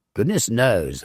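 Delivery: curt, irritated reply; testy. A narrator's reading. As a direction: brush the question off sharply. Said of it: "I answered testily".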